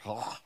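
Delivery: low, soft sound of revulsion; disgusted noise. Retold or imitated. Imitated noise of disgust at filth.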